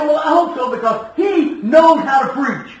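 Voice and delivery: booming it out like the proud member; loud, insistent church member; emphatic praise. Retold or imitated. Church member praising guest preacher.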